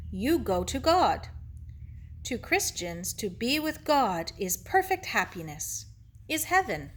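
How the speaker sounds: lightly voiced Japanese-accented sage; gentle teacher Ito. Ito explains heaven to Sarah, gently thoughtful. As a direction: explain patiently in short, separated phrases.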